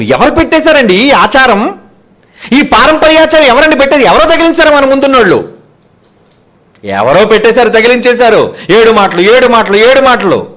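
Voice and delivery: high-pitched, challenging sermon delivery; forceful preaching. Acted. Preacher challenges church traditions. (గొంతెత్తి నిలదీసే ప్రసంగం)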